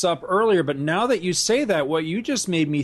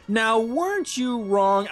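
higher, slow, teasing taunt of "Now, weren't you wrong?"; mock taunt; 7 semitones higher, slower than usual. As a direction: tease it out slowly like a movie villain gloating. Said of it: "I always think that the next line is gonna be".

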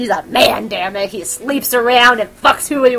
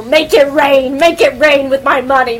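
loud, higher frenzied gushing; frenzied fangirl; 4 semitones higher, 8 dB louder than usual. Acted. Fangirls throwing money at the bookseller, loud frenzy. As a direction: shout it out like a fan losing all control. Acted fangirls going wild over seller.

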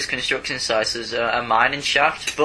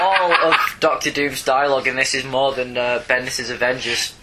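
laughing. Real, not acted. Laughing while claiming word count.

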